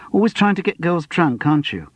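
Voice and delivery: a touch of coy teasing; lightly voiced flirty simper.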